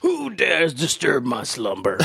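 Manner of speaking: slow, booming cave guardian; sleeping ancient god. Pretend. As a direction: rumble like a roused cave spirit. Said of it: "role play, Cave of Wonder".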